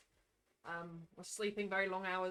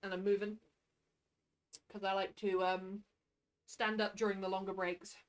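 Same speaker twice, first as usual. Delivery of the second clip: far from mic; 2 semitones lower than usual. Real, not acted. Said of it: "If I sound a bit further away from the mic".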